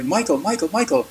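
chorus of people greeting him one after another; cheery name-calling. Retold or imitated. Everyone calling his name.

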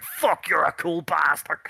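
slow awed whisper. Retold or imitated. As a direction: breathe it out in awe.

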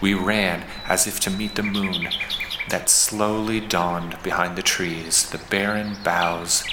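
measured poetry recital with pauses between lines; unhurried, understated verse reading; poem reading. Acted. Reads the poem aloud.

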